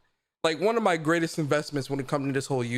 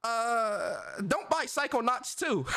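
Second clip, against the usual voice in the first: higher, hammed-up jokey voice; a soundbite line, put on and higher; mock soundbite voice; 5 semitones higher, 4 dB quieter, slower than usual. Shown as a demonstration. Streamer recording a soundbite for chat, hammed-up higher voice. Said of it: "I'm about to create a new sound bite right now".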